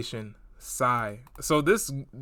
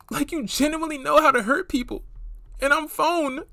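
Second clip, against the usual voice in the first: much higher, mocking read of "I'm phone"; mock texter voice; 10 semitones higher than usual. Reading the texter's line.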